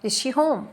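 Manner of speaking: "Is she home" with a lift onto "home"; question intonation. Shown as a demonstration. Teacher giving a sample question, lifted question tone. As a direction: ask it, raise "home". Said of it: "rising intonation".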